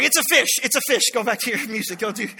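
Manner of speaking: put-on flustered father hushing his child; panicked cover-up. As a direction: blurt it out to cover a slip.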